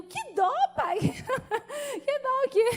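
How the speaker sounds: high, incredulous cry with a laugh; laughing disbelief. Retold or imitated. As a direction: scoff at her father in amused outrage. Retelling own indignation, laughing.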